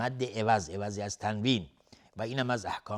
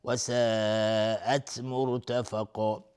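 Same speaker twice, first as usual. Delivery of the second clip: chanted slowly, ساءت drawn long; slow Quran recitation; much slower than usual. Shown as a demonstration. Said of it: "مد واجب متصل". (تلاوت آرام با کشیدن ساءت)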